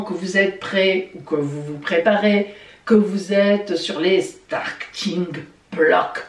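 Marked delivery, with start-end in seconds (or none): 4.2-6.2 French speaker showing off an English accent. Shown as a demonstration. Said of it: "vous avez vu l'accent anglais". (accent anglais appuyé)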